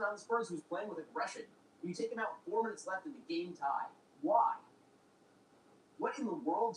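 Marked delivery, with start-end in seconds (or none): 4.2-6.8 a sudden loud, frustrated "Why?"; exasperated outburst. Real, not acted. Fan yelling at the Spurs coach, loud and exasperated. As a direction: throw up your hands and bark it.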